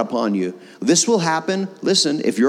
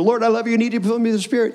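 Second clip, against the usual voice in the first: higher, fast, excited prayer; louder and faster; 7 semitones higher, faster than usual. Shown as a demonstration. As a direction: rush the prayer out, pitch climbing. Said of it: "louder and faster".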